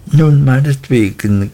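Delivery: conceding with a smile in the voice; a mother's smiling concession. A narrator's reading. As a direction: give in with a smile. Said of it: "gab meine Mutter lächelnd zu".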